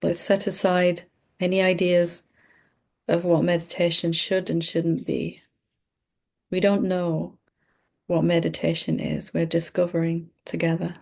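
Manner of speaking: calm, unhurried meditation guide with long pauses; measured meditation delivery, pausing often; guided meditation. Real, not acted. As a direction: lead them gently through breathing, leaving space between phrases. Leads a breathing meditation.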